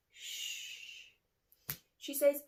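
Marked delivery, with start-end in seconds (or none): 0.1-1.1 shush. A narrator's reading. Shushing in library.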